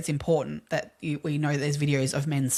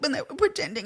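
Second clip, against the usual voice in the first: mock very high, weepy crying voice; 10 semitones higher than usual. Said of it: "crying, going".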